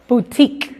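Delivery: "Boutique" said boo-TEEK, the u and e silent; English word demo. Shown as a demonstration. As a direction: model "Boutique" with no u or e sound. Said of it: "la U E es muda y la O es muda".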